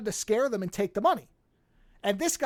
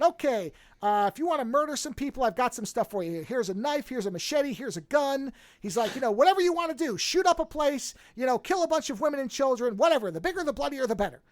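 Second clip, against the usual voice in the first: a lightly voiced cheery game-show host, pitched higher and quicker; 4 semitones higher than usual. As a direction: offer the weapons like prizes on a game show. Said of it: "Like a game show".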